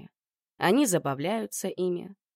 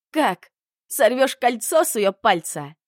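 furious question; 4 semitones higher, 6 dB louder than usual. Acted. Heroine confronts Emil in a quarrel.

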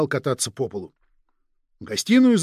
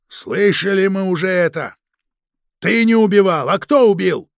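loud, impatient demanding shout; frantic shouting hostage taker; 5 semitones higher, 8 dB louder than usual. Acted. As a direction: cut him off and press hard. Interrogator shouting at suspect. (нетерпеливый крик следователя)

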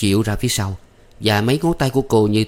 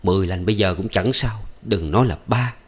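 brushing it aside. Acted. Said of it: "Nhâm gạt ngang".

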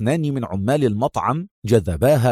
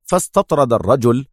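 usual speaking voice

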